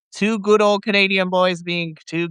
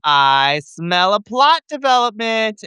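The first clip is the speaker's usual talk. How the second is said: knowing remark; 4 semitones higher, 4 dB louder, slower than usual. Retold or imitated. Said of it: "So I'm like".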